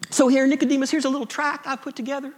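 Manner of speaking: put-on Southern evangelical Jesus; southern accent. Evangelical Jesus handing Nicodemus a tract, southern accent. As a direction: offer it sweetly in a mock Southern accent. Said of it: "Jesus has a southern accent".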